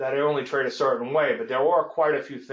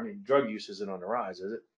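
ordinary delivery

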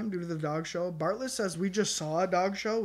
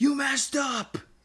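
mock furious shout, loud and pitched up; 8 semitones higher, 5 dB louder than usual. Retelling how a crowd member yelled at a wrestler: imitating an angry yell. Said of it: "In a really angry voice".

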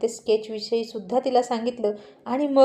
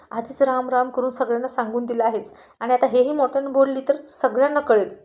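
ordinary delivery

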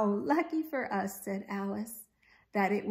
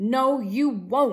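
snarling, very loud; 2 semitones higher, 8 dB louder than usual. The fattest gator stops the smiley gator reaching for the pie: snarled. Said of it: "snarled the fattest gator".

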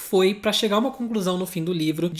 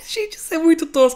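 sad laugh, high and loud; 8 semitones higher, 6 dB louder than usual. Recapping the story's ending for the audience, laughing sadly. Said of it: "Tô rindo, mas é de triste".

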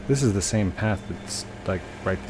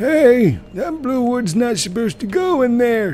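put-on grandpa voice, very high, very loud; 9 dB louder than usual. Showing off the voices they do, the speaker performs their grandpa voice. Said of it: "which is my grandpa voice".

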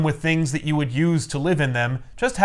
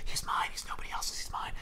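barely voiced, very soft, breathy whisper. Retelling a movie scene where Bane grabs a man, Bane whispering. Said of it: "he whispers".

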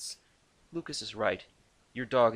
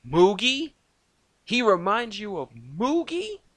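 high-pitched, shrill, aghast and horrified incredulity; 11 semitones higher, 9 dB louder than usual. A character reacts to another's comment about his dog, incredulous, with horror. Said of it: "he said incredulously".

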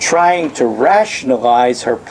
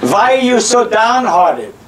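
put-on Yiddish-inflected accent, very high; 9 semitones higher than usual. Retelling Elkanah comforting his crying wife, in a Jewish accent. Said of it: "This is my Jewish accent".

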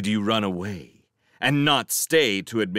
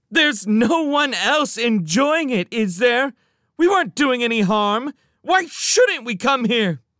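very high, loud, almost shouting; 6 dB louder than usual. Kitty argues back with the owner of the car they hit, almost shouting. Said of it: "Kitty found herself almost shouting".

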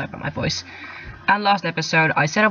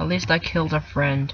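plain

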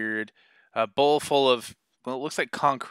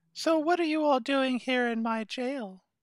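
very high, gently giggling little elf voice. A game master voices the elf who keeps the jail, addressing the players: gently giggling elf voice. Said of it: "As they opened the door, she kind of giggled gently and went, "Haha,"" then gave her name and asked, "How can I help you?".

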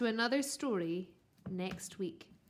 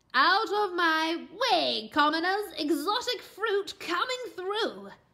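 loud, high bellowing in a posh voice; 6 semitones higher, 5 dB louder than usual. A giant pineapple pushes past the other fruits toward the boy: posh bellow. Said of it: "It bellowed in a posh voice".

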